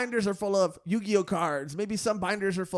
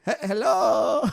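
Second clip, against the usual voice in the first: nerd clerk voice; 5 dB louder, much slower than usual. Pretend. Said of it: "Okay, Asian?".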